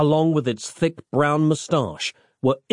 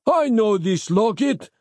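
high, drawn-out exclamation; crying out; 8 semitones higher than usual. A narrator's reading. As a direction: cry it out high and slow. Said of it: "cried Marco".

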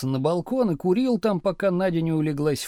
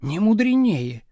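louder, harsh, curt; harsh reply; 4 semitones higher, 5 dB louder than usual. A narrator's reading. Wife harshly contradicting husband's proverb, louder. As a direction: shut him down flatly. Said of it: "жёстко ответила Надя".

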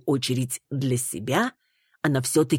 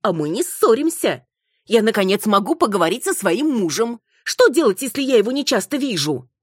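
defiant wife; 7 semitones higher, 4 dB louder than usual. Acted. Wife insists they're not fighting.

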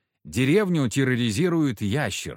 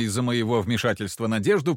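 ordinary delivery, nothing marked

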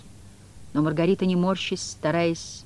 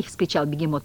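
ordinary delivery, nothing marked

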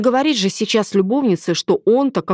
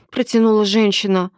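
plain reading voice

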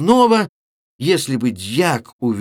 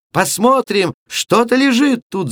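put-on higher, louder girlish cry; excited shout; 10 semitones higher, 3 dB louder than usual. A narrator's reading. Girls untying the sack, excited higher shout. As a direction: call out eagerly. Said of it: "закричали все".

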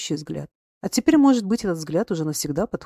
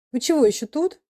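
good-natured grumble, pitched higher; добродушно ворчливо; 8 semitones higher, 4 dB louder than usual. A narrator's reading. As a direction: grumble fondly at the ladies. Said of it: "добродушно, ворчливо проговорил он". (добродушно ворчит, голос выше)

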